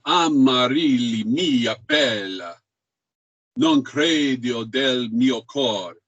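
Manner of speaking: slow "Amarilli mia bella", stretching RIL and BEL; penultimate syllables emphasized. Shown as a demonstration. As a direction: lean long on each stressed syllable of "non credo del mio cor". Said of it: "syllable is emphasized".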